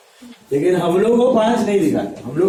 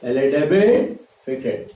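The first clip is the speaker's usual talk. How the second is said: "डेबिट" held up, then "फिर क्रेडिट" let down lower; relaxed rhythm; 4 semitones lower than usual. Shown as a demonstration. Teacher drilling the rule into students, easy rhythmic recital. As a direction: repeat it as an unhurried two-beat rule, "डेबिट", then "क्रेडिट". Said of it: "आराम से rhythm follow करो".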